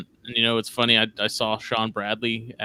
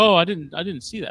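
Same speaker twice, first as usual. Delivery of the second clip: higher-pitched quoted reaction; retold reply; 6 semitones higher, 4 dB louder than usual. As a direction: lightly voice the other guy, pitched up. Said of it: "he was like".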